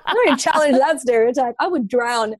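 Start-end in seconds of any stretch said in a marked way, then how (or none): 1.6-2.3 laughing through the words; amused, laughing confession. Real, not acted. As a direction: giggle while admitting it. Joking she can't swim.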